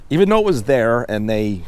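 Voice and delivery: talking through a burp. Real, not acted. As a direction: burp breaking into the words. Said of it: "sorry, I'm burping right now".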